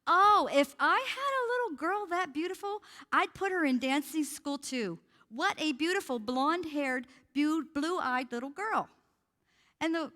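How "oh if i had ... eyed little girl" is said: sweet stranger's compliment. Retold or imitated. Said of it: "She goes".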